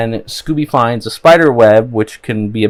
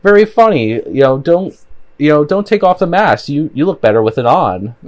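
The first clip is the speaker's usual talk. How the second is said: imitating snark, higher and a bit louder; lightly sarcastic retold jab, pitched up; snarky sarcasm; 6 semitones higher, 3 dB louder than usual. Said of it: "being very snarky and, uh, sarcastically says".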